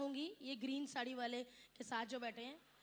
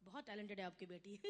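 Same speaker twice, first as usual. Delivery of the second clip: low, soft baritone star voice; Amitabh Bachchan impression; 8 semitones lower, 10 dB quieter than usual. Amitabh greeting the comedian's mother, in a low soft baritone. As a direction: sink into a deep, hushed Bachchan baritone. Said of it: "बार बार थोड़ी मिलना अमिताभ बच्चन से".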